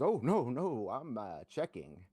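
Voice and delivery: a high, loud fake "oh no" that trails off; overdone fake hesitation. Opponent at poker table overacting a check. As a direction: oversell a weak hand. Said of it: "That was, like, way too, like, overkill".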